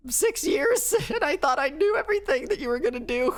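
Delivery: high squeaky startled cat voice; imagined cat voice. Retold or imitated. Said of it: "this poor cat is like".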